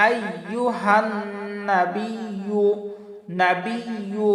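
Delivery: আইয়ুহান with a held nasal n; ghunnah. Shown as a demonstration. Teacher shows ghunnah, আইয়ুহান with held nasal n. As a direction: hum through the n of আইয়ুহান, slowly. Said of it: "এটাকে ওয়াজিব গুন্না".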